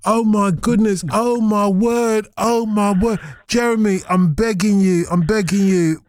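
hammed-up pleading to a caller; mock begging. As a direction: beg Jeremy to call back, over the top. Host begging a caller to ring.

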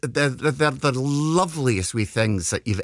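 lightly voiced Scottish lady accent; gently put-on character voice; Mrs Doubtfire. Prank caller to dog groomer, a light Mrs Doubtfire. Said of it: "my very best, Missus Doubtfire".

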